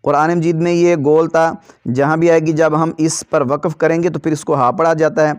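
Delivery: slow, clear, even chanting of syllables; qaida recitation drill. Shown as a demonstration. Teacher drilling children in a steady recitation chant. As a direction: recite each syllable cleanly for the pupils.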